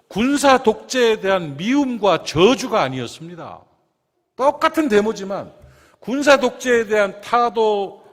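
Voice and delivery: loud, ringing pulpit voice; full-force preaching. Acted. Pastor preaching passionately to his congregation, loud and fervent. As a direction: preach it out to the whole church.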